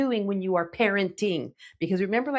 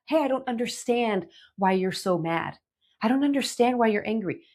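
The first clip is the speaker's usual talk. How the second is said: gentle tone. Shown as a demonstration. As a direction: ask it gently, really wanting to know. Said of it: "how I'm saying that? My tone here".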